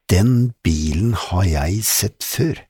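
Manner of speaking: slow, weighty delivery; slow and meaningful. Acted. Fyrstikken tells his friends about the car, slow and weighty. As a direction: let each word land with meaning. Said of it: "sa han langsomt og betydningsfullt".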